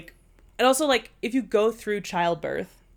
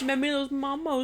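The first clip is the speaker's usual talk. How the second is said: cutesy echo; 7 semitones higher than usual. Pretend. Echoes the babying voice.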